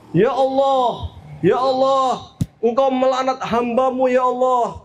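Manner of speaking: mildly acted indignant appeal; angry Iblis. Iblis reacts to God's curse, angry. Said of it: "Iblis marah".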